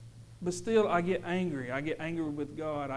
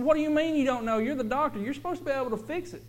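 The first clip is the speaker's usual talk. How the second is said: higher, louder angry demand; angry retort; 9 semitones higher, 6 dB louder, faster than usual. Retold or imitated. Father yelling at the doctor over his daughter, angry. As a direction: fire back at the doctor in anger. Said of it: "'Cause I got so mad".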